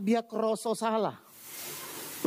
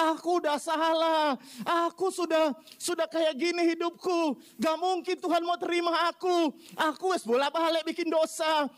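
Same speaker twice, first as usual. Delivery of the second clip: raised, pleading voice of self-reproach; guilt-ridden lament; 6 semitones higher than usual. Acted. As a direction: voice Peter's despair at his own failure. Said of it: "Dia merasa". (ratapan penuh rasa bersalah)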